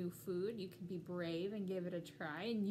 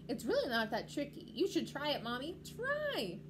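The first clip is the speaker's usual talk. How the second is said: put-on louder, eager child voice, high on the last word; Pip-Pip; 4 semitones higher, 4 dB louder than usual. Little penguin urges mommy to try it, eager. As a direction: coax mommy to join in. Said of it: "cried little Pip-Pip".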